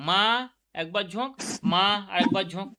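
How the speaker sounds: মা stressed on each beat; syllable beats. Shown as a demonstration. Teacher counts syllables in মামা, stressing each. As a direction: tap মা once per syllable. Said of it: "দুবার ঝোঁক নিতে হচ্ছে".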